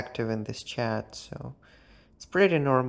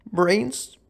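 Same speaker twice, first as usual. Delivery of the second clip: higher, louder questioning take; puzzled question; 5 semitones higher, 3 dB louder than usual. Pretend. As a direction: ask it back, confused. Echoes the word puzzled.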